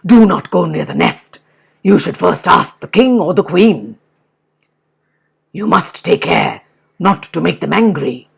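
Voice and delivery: wolf cautioning the bear, firm; cautious wolf. Acted. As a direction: warn him carefully.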